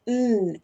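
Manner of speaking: "n" as a bare hummed consonant; reduced "and". Shown as a demonstration. Teacher showing what replaces and, bare "n". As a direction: say only "n", no vowel, no d. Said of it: "vamos a decir".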